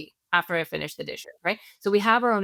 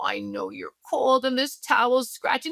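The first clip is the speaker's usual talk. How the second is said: put-on higher, slow, gentle soothing to a baby; soothing baby talk; 4 semitones higher than usual. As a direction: parent comforting a shivering baby, slow and high.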